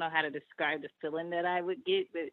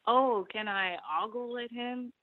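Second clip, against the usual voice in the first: imitating a sweet lady; 5 semitones higher than usual. Caller voices white lady.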